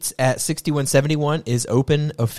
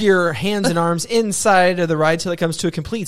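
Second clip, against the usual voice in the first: theme park ride spiel; 5 semitones higher than usual. Pretend. Sends cohost off like a ride.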